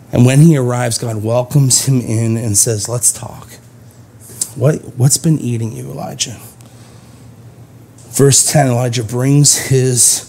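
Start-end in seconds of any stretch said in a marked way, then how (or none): 2.9-6.4 soft, gentle invitation, much softer; friendly. Acted. God welcoming the weary prophet in, gentle. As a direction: welcome him like an old friend. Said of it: "as someone awaits the arrival of a friend".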